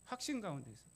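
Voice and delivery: quiet afterthought on 확신 가운데서; soft echo. Real, not acted. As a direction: let 확신 가운데서 fall back quietly.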